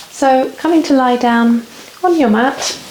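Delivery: calm yoga teacher's guiding voice with long pauses; guided relaxation. Real, not acted. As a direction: ease them into stillness, phrase by phrase. Leads yoga relaxation and breathing.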